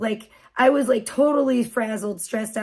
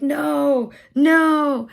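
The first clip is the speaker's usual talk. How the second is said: long, raised mock-exasperated no; exasperated refusal; 3 semitones higher, 5 dB louder than usual. Mom refusing the kid's antics, exasperated. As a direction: protest it, stretching the second word.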